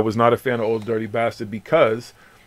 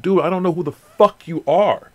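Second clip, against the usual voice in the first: retold annoyance; 6 semitones higher than usual. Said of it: "I'm like".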